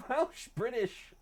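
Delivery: slow laughing drawn-out exclaim; giggling emphatic Welsh British. Real, not acted. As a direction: laugh through it, stretched. Laughing insistence on identity.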